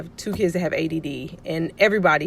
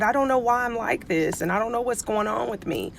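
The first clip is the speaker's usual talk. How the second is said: slightly higher, retold kid's protest; imitating bewildered child; 4 semitones higher than usual. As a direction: voice a child at a loss about herself. Voices her bewildered child.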